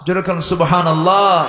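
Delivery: জোরে কন সুবহানাল্লাহ pushed up and out with a laugh. Shown as a demonstration. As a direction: rouse the audience, laughing, to shout সুবহানাল্লাহ back.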